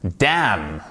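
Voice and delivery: "Damn" ending on M; silent N. Shown as a demonstration. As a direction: say "Damn" with no N sound. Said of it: "On ne prononce pas le N".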